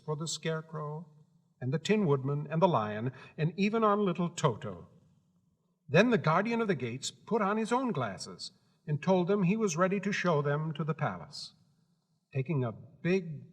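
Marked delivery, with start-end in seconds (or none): none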